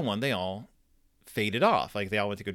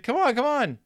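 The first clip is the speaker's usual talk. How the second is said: high, raised, insistent calls; repeated call; 12 semitones higher than usual. Retold or imitated. Dad keeps calling son who pretends not to hear, insistent high call. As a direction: keep calling a dawdling kid.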